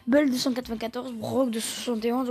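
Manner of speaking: a little out of breath; winded wheezy voice. Real, not acted. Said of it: "je suis essoufflé".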